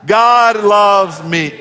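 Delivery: loud, slow, emphatic declaration; said like you mean it. Shown as a demonstration. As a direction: shout it out with conviction. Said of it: "say it like you mean it".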